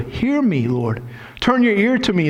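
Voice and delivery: high calling out to God; prayerful cry. Acted. David crying out to be heard, high. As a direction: call up to the Lord.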